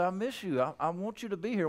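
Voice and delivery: soft, caring appeal; tender plea. Shown as a demonstration. Pastor tells an absent member he misses them, soft. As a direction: say it gently, wanting them back. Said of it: "I say".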